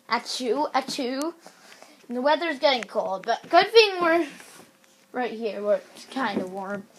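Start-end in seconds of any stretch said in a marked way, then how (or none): 0.1-1.3 softly spoken mock sneezes; fake sneeze. Player claiming a bad cold, fake sneezing. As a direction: say a half-hearted pretend achoo. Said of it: "I have a really bad cold".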